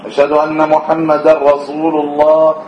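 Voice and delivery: رسول said with a heavy emphatic ص sound; رسول voiced as رصول, s made emphatic. Shown as a demonstration. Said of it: "أن يجعل السين صادة".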